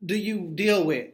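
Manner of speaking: mock prim question. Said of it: "Pretty much like".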